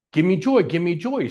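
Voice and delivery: mock demanding. Speaker imitating past self searching for joy, mock demanding. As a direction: act out greedy begging.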